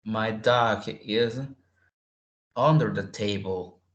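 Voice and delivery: slow, with "under" stressed; slow model sentence. Shown as a demonstration. Teacher reading example sentence slowly, stressing under. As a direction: spell it out slowly for learners. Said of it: "What am I saying?".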